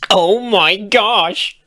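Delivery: delighted shriek of disbelief; high squeal. Acted. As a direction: squeal it high, loud and slow. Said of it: "Bon Bon squealed".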